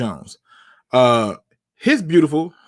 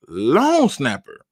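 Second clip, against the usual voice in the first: "long snapper" slow, with "long" swooping up; emphatic repeat; much slower than usual. Shown as a demonstration. Host hammering the point to viewers, slow stress on "long". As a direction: lean hard and slow on "long". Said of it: "put emphasis on the word long snapper".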